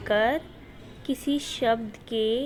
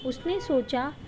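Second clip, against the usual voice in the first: put-on slow, careful read-aloud for children; measured storybook reading for pupils; reading a passage aloud. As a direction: read it slowly so the class can follow. Teacher reads passage aloud.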